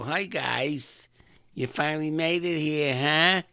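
high, loud hearty hello; retold rowdy woman's welcome; loud greeting. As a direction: call out to arriving guests. Girl greeting arriving dates.

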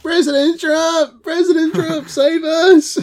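high, wailing plea to Trump; mock adoring fan. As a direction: cry out like a desperate fan. Mock crowd crying out to Trump.

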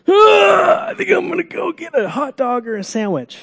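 high, lazy mock groan off the couch; hammed-up groan of someone getting off the couch. Someone getting up off the couch for a snack, mock lazy groan. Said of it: "getting up off the couch and going".

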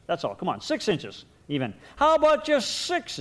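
through gritted teeth. Pretend. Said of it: "as he grits his teeth".

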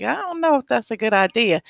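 hesitant, unconvinced quote; doubtful. Retold or imitated. Quoting a colleague who doubts the rage room, skeptical. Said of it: "some people are like".

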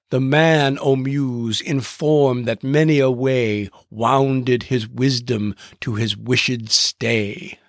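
slow, stately iambic reading, slowing further at the end; slow poetic recitation. Shown as a demonstration. Host reads Chapman's Odyssey aloud in slow stately iambic verse. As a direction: intone Chapman's line like old verse. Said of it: "he used that iambic pentameter".

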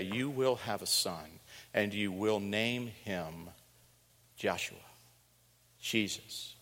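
soft and slow, Jesus nearly whispered; solemn announcement. Retold or imitated. Angel telling Joseph the name, soft and solemn. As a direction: hush it like a holy decree. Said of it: "What did he say?".

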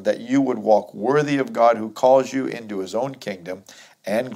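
firm, projected Bible reading; scripture reading. Acted. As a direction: read the verse out to the congregation. Reads scripture aloud to congregation.

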